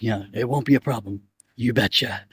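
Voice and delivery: Gento drawls a Minnesota you betcha; lightly mock Minnesota accent. Gento parting words, light mock Minnesota accent. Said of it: "he's like".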